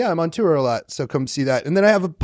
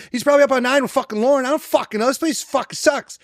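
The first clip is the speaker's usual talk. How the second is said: mock grumpy rant; 10 semitones higher than usual. Retells the grumpy outburst.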